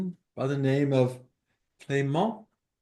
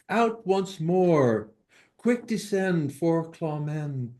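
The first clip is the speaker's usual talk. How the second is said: slow, emphatic verse reading; deliberate, lilting poetry reading; poem recitation; slower than usual. Acted. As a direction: recite each short rhymed line with weight. Reads second translated poem.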